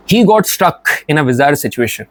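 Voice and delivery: very slow, careful reading; slow example sentence. Shown as a demonstration. Teacher slowly reading an example sentence to the class. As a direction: stretch the sentence out for learners.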